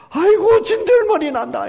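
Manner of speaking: high, loud exasperated groan of disgust; fed up. Acted. Preacher voicing God weary of empty offerings, exasperated. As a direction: cry out that you are sick of it.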